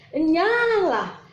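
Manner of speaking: Enyahlah drawn out slow and high; stern command. Acted. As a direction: banish them with a slow Enyahlah. Quoting the Lord's rejection. (Enyahlah diucapkan lambat dan tegas)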